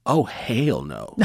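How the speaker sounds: slow, drawn-out refusal, a little shouted; flat-out refusal, stretched for comic effect; mock-alarmed shout of no way; oh hell no. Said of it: "I just remember thinking".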